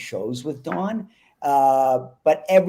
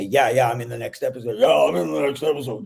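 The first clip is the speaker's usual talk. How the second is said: Don's quick voice. Retold or imitated. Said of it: "he'd say".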